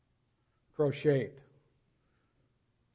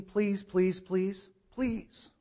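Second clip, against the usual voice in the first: higher-pitched little pleas, trailing softer; mock pleading; 4 semitones higher, 5 dB quieter, much slower than usual. Preacher mimicking what Paul doesn't mean, pleading. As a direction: beg in a small, high put-on voice. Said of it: "idea that he's pleading".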